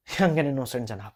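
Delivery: put-on slow, sneering young and innocent; sarcastic repeat. Lawyer mocks the defendant's label to the judge, slow and sneering. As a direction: drag young and innocent out with scorn.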